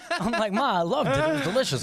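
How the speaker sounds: high, loud protesting son; high-pitched pleading to mom about her cooking. Retold or imitated. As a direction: insist up high to mom that it was great.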